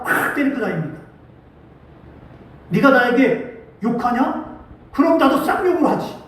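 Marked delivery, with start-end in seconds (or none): 2.7-6.2 slow, pointed retort, rising higher on the second line; hammed-up indignant comeback; mock angry comeback. Preacher voicing an offended man cursing back, mock angry. Retold man answering insult with curses.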